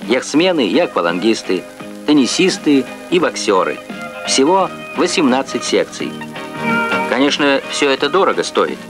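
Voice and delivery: formal Soviet TV narrator. Real, not acted. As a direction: archival broadcast recording. Archival Soviet TV report.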